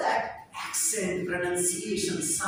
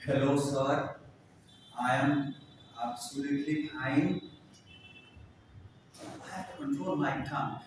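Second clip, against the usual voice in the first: put-on his earlier Indian English accent, voice lowered; old Indian English accent; 6 semitones lower, 4 dB quieter than usual. Speaker showing students his old Indian English accent, lower. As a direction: imitate how he spoke Indian English before. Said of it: "जैसे मैं कैसे बोलता था".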